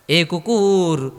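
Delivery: drawn-out call, voice falling at the end; calling the dog. Acted. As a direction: stretch the words out to summon the dog.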